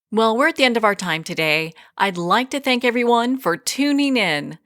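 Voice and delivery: measured, polished host outro; radio show sign-off. Acted. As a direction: wrap up the show and send listeners onward. Host reads the show's closing plug.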